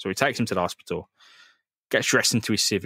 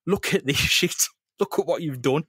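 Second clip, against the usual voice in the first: higher, menacing taunt; menacing Spider-Man; 5 semitones higher than usual. Retold or imitated. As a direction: shove it in his face. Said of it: "puts it in his face and goes".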